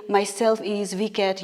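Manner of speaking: "Myself is Viket" as a plain example of the error; wrong version. Shown as a demonstration. Teacher quoting the mistake students make, plain. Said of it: "So do not go and say".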